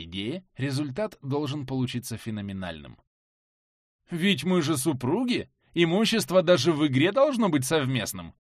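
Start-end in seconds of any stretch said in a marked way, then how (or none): 4.1-8.3 mock indignant exclamation. Heroine teasing husband, exclaiming.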